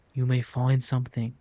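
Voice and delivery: lightly voiced sage, word find leaned on; a hint of an old mentor's wisdom; wise mentor voice. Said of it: "Why am I talking like that?".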